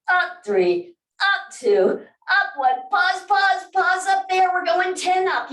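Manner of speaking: high, loud pumped-up count; loud cheering count. Real, not acted. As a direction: drive the class through the last reps. Instructor counting hard reps.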